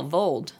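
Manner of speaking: "Vold" with a long O; spelled-out pronunciation. Shown as a demonstration. Friend explaining how to say it, "Vold" with long O. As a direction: say "Vold" to rhyme with "old". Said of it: "that's just V O L".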